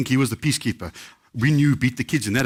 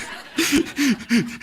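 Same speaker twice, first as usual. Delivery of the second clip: high laughter; 12 semitones higher than usual. Real, not acted. Laughing at own bank story.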